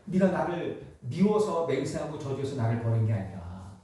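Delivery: tender Jesus. Acted. Jesus restoring Peter gently.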